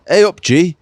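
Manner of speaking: high mock Yorkshire greeting; a quick imitated Yorkshire hello; bad Yorkshire accent. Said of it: "it's really bad accents now".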